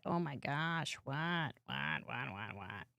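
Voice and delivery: fading, soft voicing of a startled cat; a tiny flustered cat voice, fading out; small startled cat. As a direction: let it shrink to almost nothing. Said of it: "He's just like".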